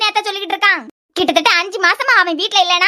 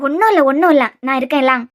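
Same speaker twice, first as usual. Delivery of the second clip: reassuring; 5 semitones lower than usual. Acted. Soothing frightened pregnant girl.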